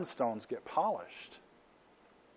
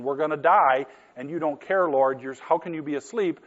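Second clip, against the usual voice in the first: louder, panicky cry of frightened men in a storm; panicked disciples; 2 semitones higher, 5 dB louder than usual. Retold or imitated. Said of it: "The disciples are freaking out and panicking".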